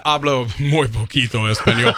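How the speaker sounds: American-accented beginner Spanish; terrible Spanish accent. Real, not acted. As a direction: speak Spanish with a clumsy English accent.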